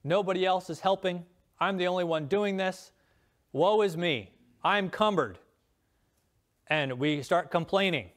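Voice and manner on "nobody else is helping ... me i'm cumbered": mock self-pity. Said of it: "Don't we get this attitude".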